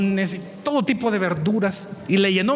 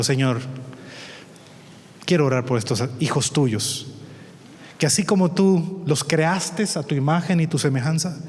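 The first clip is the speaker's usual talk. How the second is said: prayer. Acted. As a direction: pray tenderly over the neighbors. Pastor prays.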